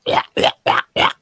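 breathy whispered yeah yeah; unvoiced yeahs. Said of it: "when you can go".

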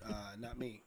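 soft, slow, stuffy sick voice; under the weather, low and slow. Real, not acted. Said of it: "I like your sick voice".

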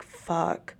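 breathless whispered fuck; whispered curse. Retold or imitated. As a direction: mutter it under your breath. Whispered curse at positive test.

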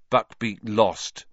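slow, weak and deflated; weakly. Acted. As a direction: barely get it out. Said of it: "said Ron weakly".

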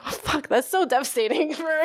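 high, laughing fake devastation; joking about mom calling her an accident, laughing; laughing mock dismay. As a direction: laugh through a pretend wounded reply. Laughing at mom's accident remark.

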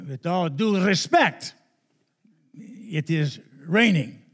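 lightly voiced formal official, slow and measured; stiff official. A host official insisting to Wendy, slow and formal. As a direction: draw it out with polite firmness. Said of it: "And Mister Rudolf Redvik said".

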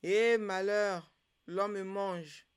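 slow, loud wail of misfortune; crying out. A narrator's reading. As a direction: cry out high, drawing the words out. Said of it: "Mangola s'écria". (cri de malheur, lent et fort)

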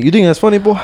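high, mock yell at a kid; mock angry teacher. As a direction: play the furious coach half in jest. Retold teacher yelling.

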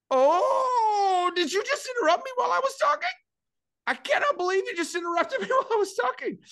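squeaky high outraged voice, fast; incredulous high-pitched complaint; high indignant outrage. Retold or imitated. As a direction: shriek up in disbelief at the interruption. Outraged at being interrupted.

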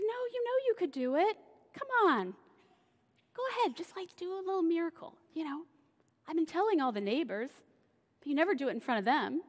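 high, coaxing overbearing mom voice; pushy mother. Retold or imitated. Mary urging Jesus to do a miracle, high and coaxing. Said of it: "And she's like".

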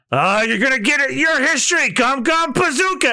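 high shouted attack cry; Luffy smashing the ground, shouting. Acted. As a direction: yell the attack name out.

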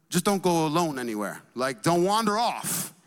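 lightly imitated Kenyan accent. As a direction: caution with a hint of Kenyan accent. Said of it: "Kenyan accent".

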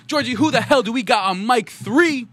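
high, rousing show-host call-out; hype host. Pretend. Host asking co-host who is on the mic, hype host. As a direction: throw it to the co-host with big hype. Host hypes guest introductions.

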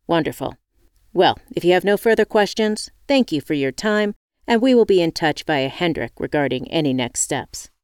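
brisk, businesslike interviewer voice; lightly voiced corporate boss; formal interviewer.

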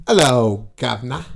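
hammed-up cockney-style British greeting; punchy start, put-on British accent; mock British accent. Shown as a demonstration. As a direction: demonstrate a stock British accent. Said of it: "You gotta say".

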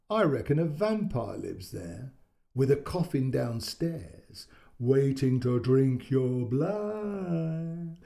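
slow, lightly spooky uncle; spooky vampire voice. Retold or imitated. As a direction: drag it out like a playful vampire. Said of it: "pretending to bite their necks".

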